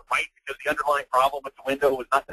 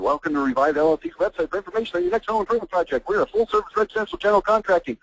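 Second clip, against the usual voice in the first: rattled-off website greeting, rising in pitch; higher, singsong brochure voice; mock website read; 3 semitones higher than usual. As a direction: recite the corporate blurb mockingly. Mockingly reads out customer's website.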